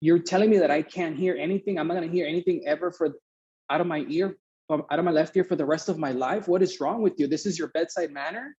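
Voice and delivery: retold outrage in incredulous questions; mildly heated, disbelieving protest; indignant. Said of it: "I was so angry".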